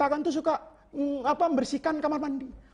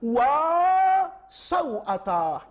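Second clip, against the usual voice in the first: drawn-out, higher mock cry of shame; mock outcry; 4 semitones higher, much slower than usual. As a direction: stretch the cry as if caught exposed. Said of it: "itu dia teriak".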